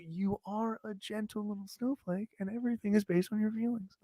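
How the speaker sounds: put-on baby him like a fragile child; mock soft, coddling voice. Mocking Adam as a snowflake, coddling quietly. Teasing friend as a delicate snowflake.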